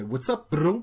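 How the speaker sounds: What's up plain, then "bro" in a Russian accent; accent on bro only. Shown as a demonstration. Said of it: "j'ai un accent sur le bro".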